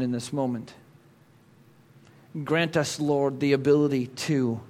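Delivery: soft, hushed prayer to the Lord. Real, not acted. Pastor opening in soft prayer. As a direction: pray quietly and earnestly.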